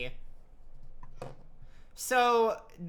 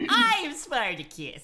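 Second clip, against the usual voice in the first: Carol Channing impression; 4 semitones higher, slower than usual. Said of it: "You have to say it like Carol Channing".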